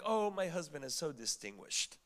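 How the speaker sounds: soft, low mock adoration; mock admiration. Wife pretending to honor her husband, mock admiration. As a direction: sigh it like a doting wife, put on. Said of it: "she's not honoring him. She's like".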